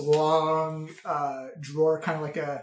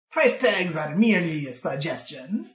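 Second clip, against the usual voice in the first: put-on sly old bookkeeper. Game master plays old bookkeeper.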